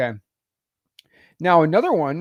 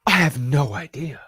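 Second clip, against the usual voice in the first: fake Victorian accent; slower than usual. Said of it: "fake Victorian accent".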